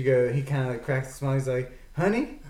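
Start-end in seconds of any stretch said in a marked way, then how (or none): 2.0-2.4 slow, higher, laughing through it; laughing punchline. Acted. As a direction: drag it out while cracking up.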